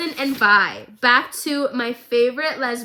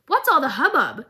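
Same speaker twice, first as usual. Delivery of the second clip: put-on cute childlike Jinx; 3 semitones higher than usual. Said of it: "It's so cute".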